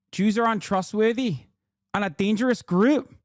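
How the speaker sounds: put-on shaky-handed stab at South African accent; attempted South African accent. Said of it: "do my best South African accent".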